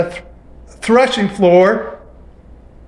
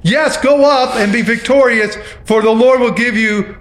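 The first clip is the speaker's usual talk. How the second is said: sarcastic. Retold or imitated. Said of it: "he replies sarcastically".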